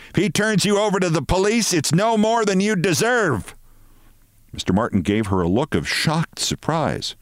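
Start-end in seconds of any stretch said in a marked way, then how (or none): 0.1-3.6 high, indignant tirade; acted shout without much added volume. A narrator's reading. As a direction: hurl a threat, pitched way up. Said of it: "she shouted".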